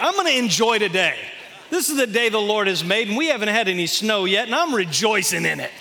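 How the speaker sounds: hammed-up happy churchgoer; joyful believer.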